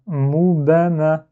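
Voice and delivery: "Moubama" slowly, each consonant single; no doubled consonant. Shown as a demonstration. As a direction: sound out "Moubama" without holding the m. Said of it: "il n'y a pas de shadda".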